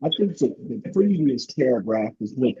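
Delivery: muffled, unclear voice. Real, not acted. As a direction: sound muffled and distant. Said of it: "you sound muffled".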